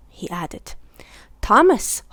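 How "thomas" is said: huffed. A narrator's reading. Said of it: "huffed Billy".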